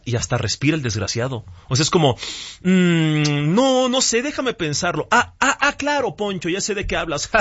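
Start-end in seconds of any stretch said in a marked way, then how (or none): 2.6-7.3 mock AI hesitating and musing, pitch jumping higher; hammed-up thinking noises before the answer; lightly voiced AI pretending to think; humanlike AI voice. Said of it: "estos sonidos de un humano respirando".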